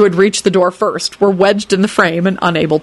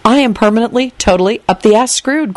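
higher, mildly panicked inner voice; frantic thought; 4 semitones higher than usual. Acted. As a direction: think aloud in rising panic. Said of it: "Quentin thought frantically".

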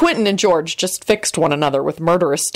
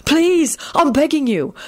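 high-pitched mock begging; scornful; 9 semitones higher, slower than usual. A narrator's reading. George goading Quentin to fight, scornful. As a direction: plead sarcastically, daring him. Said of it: "he said scornfully".

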